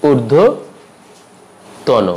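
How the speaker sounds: ঊর্ধ্বতন split wide, "urdho... tawno"; long pause inside ঊর্ধ্বতন before "tawno"; slow ঊর্ধ্বতন ending in "o"; very slow correct pronunciation. Shown as a demonstration. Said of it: "উচ্চারণটি হবে".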